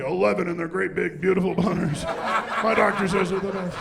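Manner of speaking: a light hint of Trump boasting; Trump impression. Lightly voiced Trump bragging about a number. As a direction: brag it like Trump. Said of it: "sounds like a made-up Trump number".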